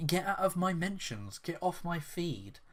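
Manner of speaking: high, haughty put-on voice; mock snooty. Mimicking the developer dismissing a fan, high snooty voice. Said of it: "she goes".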